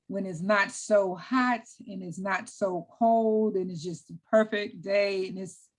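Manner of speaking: slow, contented delivery; smile in the voice. Real, not acted. Runner describing her perfect morning, smile in the voice. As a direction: let a real smile through, savoring it slowly. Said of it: "hear the smile in my voice".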